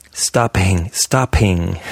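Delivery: STOPPING with a puff, "stop-hing"; wrongly puffed P. Shown as a demonstration. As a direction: blow out the P in stopping. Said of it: "You'd never say".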